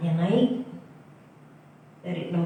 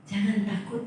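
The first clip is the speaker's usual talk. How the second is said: "Jangan takut" repeated softer, gently rising; soft echo; 6 dB quieter than usual. Real, not acted. Preacher softly repeats "Jangan takut" to comfort the church. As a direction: let "Jangan takut" fall back to a gentle reassurance.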